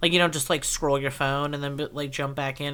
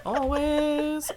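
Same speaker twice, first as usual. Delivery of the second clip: laughing; 12 semitones higher than usual. Real, not acted. Teasing about falling asleep.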